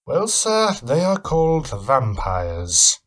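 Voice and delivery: a hint of an amazed stranger; Van Helsing. Van Helsing reveals vampires.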